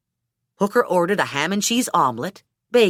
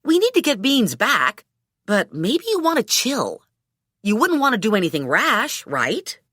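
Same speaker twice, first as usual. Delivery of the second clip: cautious friend; 4 semitones higher than usual. Acted. Narrator's character calms Hooker.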